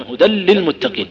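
"هدى للمتقين" بلام مشددة ممدودة; أدغم التنوين في لام "للمتقين" ببطء; إدغام التنوين في اللام. Shown as a demonstration. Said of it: "يدغم في اللام". (نطق الإدغام بتأنٍ)

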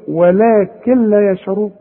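ولكن لا with the noon merged into laam; ولكن لا said as "walaakil-laa"; silent noon. Shown as a demonstration. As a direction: run ولكن straight into لا, no "n". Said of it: "ما بننطقش النون".

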